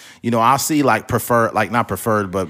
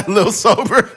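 giggling through the name; laughing; 8 semitones higher, slower than usual. Real, not acted. Laughing at joke names.

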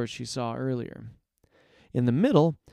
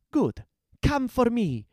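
high-pitched challenge; defiant dare; 10 semitones higher, 3 dB louder than usual. A narrator's reading. Heroine lures guards toward her, defiant. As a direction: dare them to come on.

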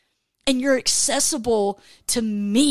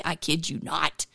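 voicing God; 6 semitones lower, 7 dB quieter than usual. God's answer, low and soft.

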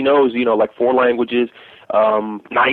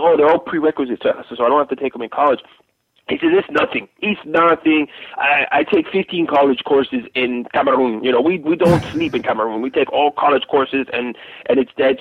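put-on French accent; 2 semitones higher than usual. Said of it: "And my terrible French accent".

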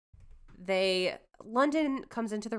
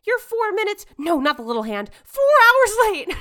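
snooty heiress; 13 semitones higher, 12 dB louder than usual. Retold or imitated. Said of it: "she's like".

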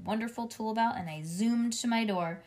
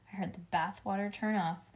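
plain reading voice

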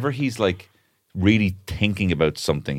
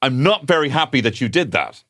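gentle parenting voice; 6 semitones higher, 4 dB louder than usual. Retold or imitated. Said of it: "I have to say things like".

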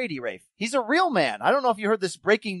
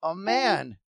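dramatic introduction. Acted. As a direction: draw out the reveal like a showman.

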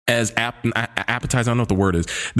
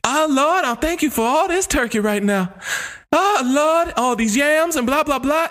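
mock Thanksgiving prayer; 13 semitones higher than usual. Joking to a friend about dinner, hammed-up prayer. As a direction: pray over the turkey like a churchgoer. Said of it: "as if we're holding hands at the dinner table".

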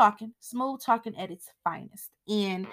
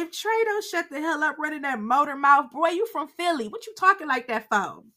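mock-scolding, pitched up; exasperated rant; 6 semitones higher than usual. Real, not acted. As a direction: vent at the screen like a fed-up viewer. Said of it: "I'm like".

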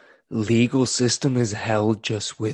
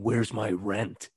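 gruff impatient scolding; 2 semitones lower, 4 dB quieter, slower than usual. Pretend. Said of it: "Minnie are pulling up with baseball bats and crowbars asking".

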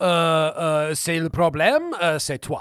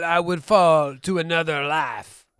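pretentious quote; slower than usual. Retold or imitated. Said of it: "You fucking pretentious Frenchman".

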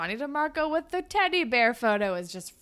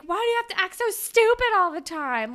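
high, louder mocking taunt; provoking; 8 semitones higher, 6 dB louder than usual. Girlfriend taunting boyfriend, light high mock voice. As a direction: needle him with a lightly put-on voice. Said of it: "she starts provoking him".

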